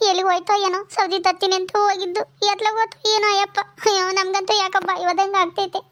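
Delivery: acted fretful lament, close to tears; mildly weepy, anxious wife; tearful worry. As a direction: worry aloud, breaking into sobs at the end. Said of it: "ಅದ್ಕೆ ಯಾಕಮ್ಮ ಅಳ್ತೀಯ".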